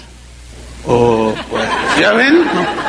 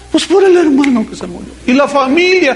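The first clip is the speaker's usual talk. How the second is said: lightly voiced old mother, a bit higher; an old mother explaining her tears, mildly raised; a hint of a tender old woman; 5 semitones higher than usual. Mother voiced answering her son.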